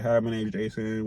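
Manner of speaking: mock nonchalant. Mocking how bosses say he greets patients, bored and flat-toned. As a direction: toss off the greeting like you don't care. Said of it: "they said that she said I was nonchalant on the phone".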